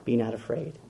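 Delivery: soft, low, calming words; calm, gentle voice. Acted. Jesus to the frightened disciples, soft calm reassurance. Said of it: "spoke just as you and I would speak".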